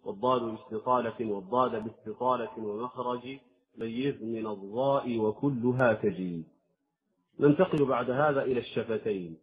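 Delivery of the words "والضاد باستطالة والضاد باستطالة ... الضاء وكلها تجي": إنشاد بيت الجزرية بتأنٍ; أنشد البيت كالمتن; verse recitation. Acted. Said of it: "بقوله". (إنشاد متن الجزرية)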